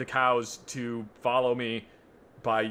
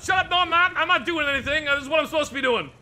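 defensive; 13 semitones higher, 6 dB louder than usual. Real, not acted. Caught, denies it defensively.

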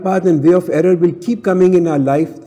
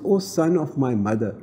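a touch softer, calm and gentle; 5 dB quieter than usual. Retold or imitated. Elder brother calming his upset brother, softly gentle. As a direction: soothe a grieving younger brother quietly. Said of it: "He's very calm and he says".

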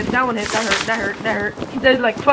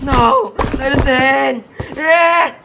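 locked out shout; 2 semitones higher, 3 dB louder, much slower than usual. Real, not acted. Locked out, calling to enemies.

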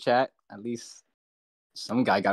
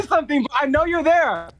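teasing prod; 11 semitones higher, 4 dB louder than usual. Real, not acted. Prodding returned streamer.

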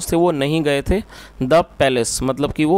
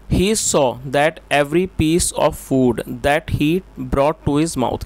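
slow, deliberate word-group reading; slow read-aloud; much slower than usual. Shown as a demonstration. Teacher reads the English sentence to students, slow dictation-like reading. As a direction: read it out slowly for learners.

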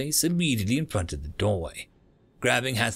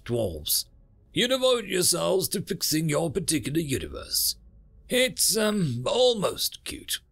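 lightly voiced universe, higher than narration; explaining universe; 6 semitones higher than usual. Universe telling humans a tale, lightly lecturing.

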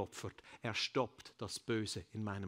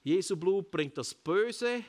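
louder, higher and slow; slow loud proclamation; 6 semitones higher, 7 dB louder than usual. Real, not acted. Preacher to the standing church, proclaiming slowly and loud. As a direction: proclaim it like a battle cry.

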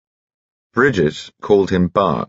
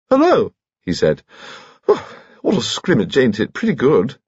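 put-on chirpy piping little old gentleman, much higher; high-pitched Bunchy; 7 semitones higher than usual. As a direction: pipe cheerfully like a tiny jolly gent.

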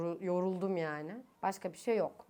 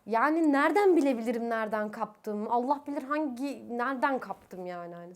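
exasperated; 3 semitones higher, 5 dB louder than usual. Retold or imitated. Annoyed reply to caller.

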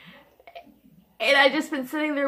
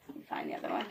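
deep voice; 14 dB quieter, much faster than usual. Pretend. Deep put-on voice.

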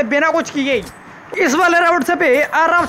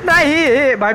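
panicked protest; 3 semitones higher, much slower than usual. Real, not acted. Downed player about to be finished, panicked cry. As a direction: cry out against being finished off.

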